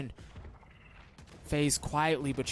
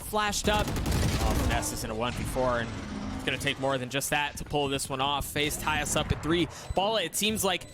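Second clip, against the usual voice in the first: esports caster. Acted. Live esports play-by-play.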